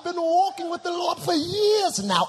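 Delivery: pompous mock outrage, high and loud; shocked churchgoer. Shocked congregant challenges the preacher, hammed-up indignation. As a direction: declaim it like an affronted, self-righteous believer. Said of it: "Some of you are shocked".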